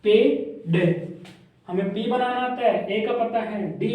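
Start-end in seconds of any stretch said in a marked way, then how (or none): 0.0-1.0 पेड stretched out very slowly. Shown as a demonstration. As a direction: draw the word पेड out long. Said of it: "हम इसको कैसे read करेंगे?".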